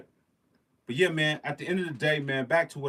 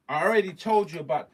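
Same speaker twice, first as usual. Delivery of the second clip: louder, higher scolding; exasperated scolding; 5 semitones higher, 7 dB louder than usual. Real, not acted. Host scolding viewers about midi cables, exasperated. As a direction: scold them for not listening.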